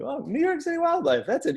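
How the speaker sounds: high, dismissive "oh, that's it" voice; unimpressed people. Retold or imitated. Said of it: "you always get the same look from people, like".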